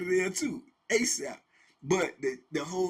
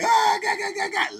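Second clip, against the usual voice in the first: mock howling laughter; 8 dB louder than usual. Inmate laughing loudly.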